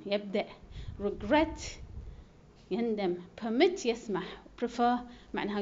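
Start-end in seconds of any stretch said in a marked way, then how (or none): 1.0-1.6 Regret said reGRET; light Re, stronger GRET in Regret; stress on second syllable. Shown as a demonstration. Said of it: "تشديد على المقطع الثاني". 3.4-3.9 Permit said perMIT; light Per, stronger MIT in Permit; stress on second syllable. Shown as a demonstration. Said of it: "تشديد على المقطع الثاني".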